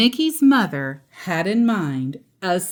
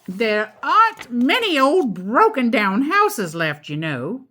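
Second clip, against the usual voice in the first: grumbling witch; 4 semitones higher than usual. Acted. Witch complains.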